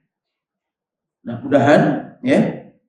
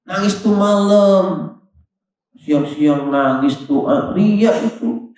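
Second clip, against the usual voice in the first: higher, slow, mock-scornful musing; inner sneering thought; 6 semitones higher, slower than usual. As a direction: toss out the judgement like a smug aside. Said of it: "Itu di hatinya dia ngomong gitu". (cibiran dalam hati, pelan dan mengejek)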